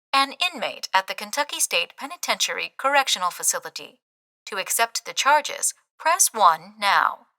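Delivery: soft, even automated phone message; recorded phone message. Acted. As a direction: read it like a robotic recording. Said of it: "the mechanical recording continues".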